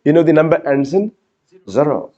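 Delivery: usual speaking voice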